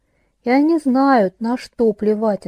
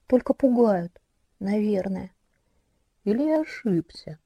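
soft coaxing predator. Acted. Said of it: "От этого вкрадчивого и мягкого тона".

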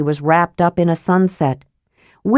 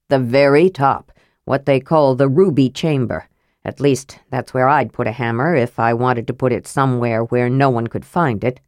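slightly gruff, lower dwarf voice; low, matter-of-fact dwarf reasoning; grumpy old dwarf; 5 semitones lower than usual. Acted. Dwarf telling kender where the hammer is, low and matter-of-fact.

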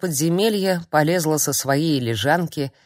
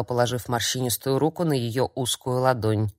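plain reading voice

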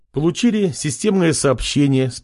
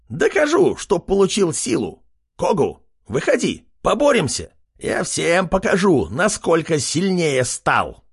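even higher, squealing defiance; fired-up challenge; 6 semitones higher than usual. Acted. Pig servant challenges Kogu, squealing defiantly. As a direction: goad the rival to fight.

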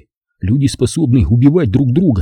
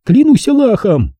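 high, slow, mildly shouted oath; cried oath; 13 semitones higher, 3 dB louder than usual. A narrator's reading. Zaza swears from the ground, crying out. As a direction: swear it emphatically, pitched high. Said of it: "прокричала она".

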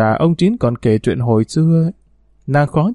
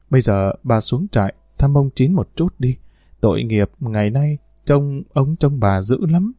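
pleading. Acted. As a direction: gently beg her to go down to him. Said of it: "Chị đổi giọng van nài".

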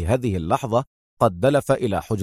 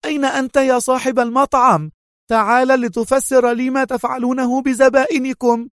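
high, louder demanding call; 13 semitones higher, 3 dB louder than usual. A narrator's reading. Mona bursting into the room, calling out high and loud. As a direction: shout for the owner in fake fury. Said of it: "ودفعته هاتفة".

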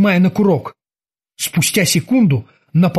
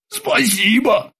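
faint babble; 6 semitones higher, much slower than usual. Acted. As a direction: mumble it in fear. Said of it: "упавшим голосом пролепетал Крюгер".

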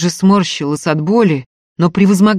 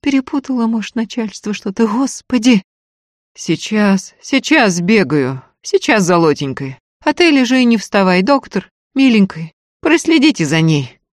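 встревоженные причитания; 6 semitones higher, 4 dB louder than usual. Acted. Крик Устиньи о беде.

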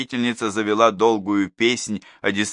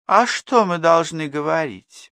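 higher, louder, slow woman's question; indignant mother; 9 semitones higher, 4 dB louder, slower than usual. A narrator's reading. Blonde mother challenges the class teacher, mildly indignant. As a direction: push back at the teacher.

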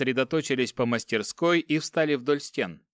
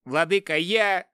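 shaky, frightened plea; trembling dwarf; 5 semitones higher, 3 dB louder than usual. A narrator's reading. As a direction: cower and plead. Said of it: "дворф затрясся, сжался в комок". (дрожащий испуганный гном)

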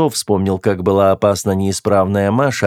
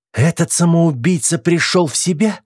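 higher-pitched stern demand; суровый голос; 8 semitones higher than usual. A narrator's reading. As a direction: sternly call out the question. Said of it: "послышался суровый голос Руди". (суровый, требовательный голос)

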